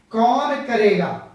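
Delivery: slow, stretched कौन falling into करेगा; sing-song कौन करेगा, drawing out कौन; lilting intonation. Shown as a demonstration. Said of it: "थोड़ा सा गाना गा करके बोला".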